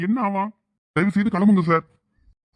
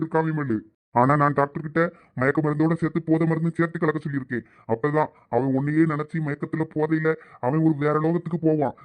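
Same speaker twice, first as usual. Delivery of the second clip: lightly lowered, gloating villain voice; menacing villain; 3 semitones lower than usual. Acted. Captor taunting the captive wife, lightly lowered gloating menace.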